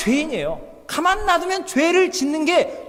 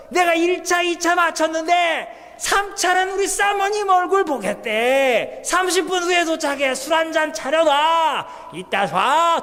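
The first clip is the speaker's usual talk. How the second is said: put-on higher, slowed drunk bragging; drunk husband on the phone; 4 semitones higher, slower than usual. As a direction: play a tipsy husband barking orders home. Drunk husband calling wife.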